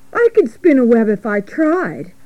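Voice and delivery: mildly boastful piglet; a touch of childish bragging; boasting. Acted. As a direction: brag lightly.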